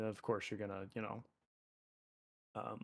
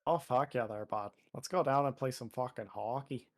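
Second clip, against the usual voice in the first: mock Canadian accent. Mocking Canadian stereotypes to friend.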